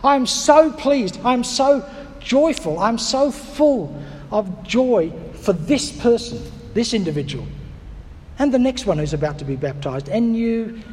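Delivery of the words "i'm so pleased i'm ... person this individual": over the top joy. Shown as a demonstration. Preacher showing God's overflowing joy, slow and gushing. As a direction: stretch every "so" with big joy. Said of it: "I'm so over the top about this".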